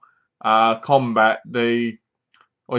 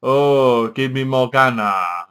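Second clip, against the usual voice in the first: djinn's demand; slower than usual. Retold or imitated. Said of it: "this bit where he goes".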